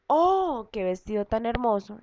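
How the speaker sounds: un oh muy agudo, luego la frase maravillada; exclamación de asombro. Shown as a demonstration. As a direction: muestra la exclamación a los alumnos. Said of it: "hacemos uso de los signos de admiración o exclamación". (exclamando con asombro)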